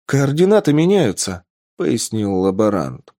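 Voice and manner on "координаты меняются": higher, eager explanation; взволнованное пояснение. Acted. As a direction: explain it with excited urgency. Лаборант объясняет открытие. (взволнованно поясняя)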